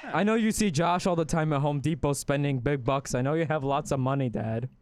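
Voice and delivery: puppet son voice. Pretend. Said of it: "talk like a puppet".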